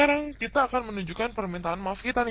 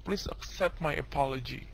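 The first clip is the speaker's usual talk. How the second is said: very polite; 3 semitones lower, 4 dB quieter than usual. Shown as a demonstration. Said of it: "Lo ngomongnya sopan banget nih".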